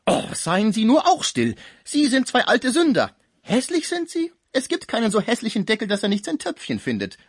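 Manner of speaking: high, loud, chattering rebuke; scolding concierge. Acted. Concierge turns on the two old sinners, shrill-pitched loud scolding. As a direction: tell both old men off with relish.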